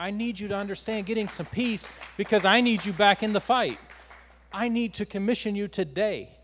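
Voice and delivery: a touch of divine urgency; urgent voice of God. Acted. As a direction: speak as God calling them back. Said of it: "He's saying".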